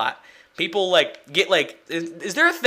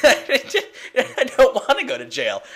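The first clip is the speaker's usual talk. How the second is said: laughing; 6 semitones higher, slower than usual. Real, not acted. Joking, laughing.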